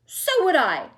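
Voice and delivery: Grandma Georgina joining the refusal loudly; cried out. A narrator's reading. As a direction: back her up firmly. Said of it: "cried Grandma Georgina".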